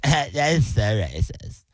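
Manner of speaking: put-on slow, drawn-out white-girl objection; mock offended white girl. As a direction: play an affronted white girl. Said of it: "a white girl, she's gonna be like".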